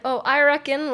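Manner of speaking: lightly attempted Southern US accent. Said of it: "sorry, I can't do a Southern accent".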